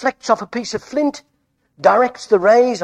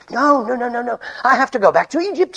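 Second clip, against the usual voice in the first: higher, urgent protest; insistent refusal; 3 semitones higher than usual. Acted. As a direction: brush the advice aside with urgency. Moses refuses Jethro's advice to rest.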